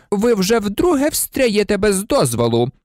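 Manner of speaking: icy, emphatic reprimand; stern teacher's scolding; cold interruption. A narrator's reading. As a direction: rebuke coldly, pitch lifted. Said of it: "холодно перебив її Снейп".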